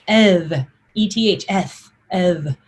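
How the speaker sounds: eth said with short E and voiced TH; letter name eth. Shown as a demonstration. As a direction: say eth as EDH. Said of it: "That's called the eth".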